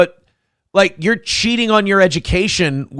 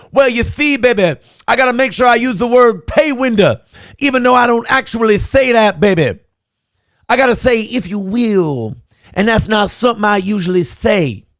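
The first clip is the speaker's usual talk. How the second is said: 1 put-on impression voice; 4 semitones higher than usual. Shown as a demonstration. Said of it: "It's like when I do an impression".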